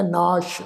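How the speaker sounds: ਨਾਸ਼ ending in sh, naash; ਨਾਸ਼ with its last sound as sh; final sh sound. Shown as a demonstration. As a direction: end ਨਾਸ਼ on a clear sh, not s. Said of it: "ਨਾਸ਼ ਸੱਸੇ ਪੈਰ ਬਿੰਦੀ".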